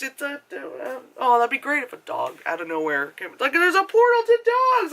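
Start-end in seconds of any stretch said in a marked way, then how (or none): 3.5-4.9 high, louder gleeful cry; hammed-up delight; mock excitement. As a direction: announce an amazing discovery. Acting out excited discovery.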